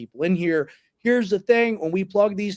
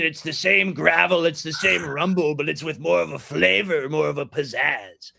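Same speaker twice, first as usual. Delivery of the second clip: Trump impression. Shown as a demonstration. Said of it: "In the Trump impression".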